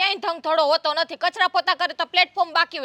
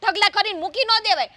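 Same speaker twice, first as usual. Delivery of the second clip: higher, louder lecturing tone; scolding; 4 semitones higher, 4 dB louder than usual. Acted. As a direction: tell her off sharply. Scolding younger sister-in-law.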